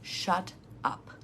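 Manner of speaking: breathy whisper of shut up, voice dropped away. Shown as a demonstration. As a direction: hush it to yourself, barely sounding shut up. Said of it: "once you've said no".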